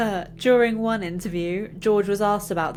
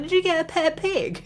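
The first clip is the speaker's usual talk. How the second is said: mock dad voice; 11 semitones higher than usual. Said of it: "He's like".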